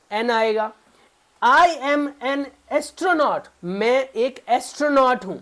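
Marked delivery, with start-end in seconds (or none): 1.4-3.4 slow example read. Shown as a demonstration. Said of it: "teacher reads example slowly".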